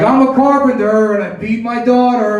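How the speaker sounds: a hint of a heartland rock singer; mock lyric by a singer. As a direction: sell it like a sincere song line. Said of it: "But he's like".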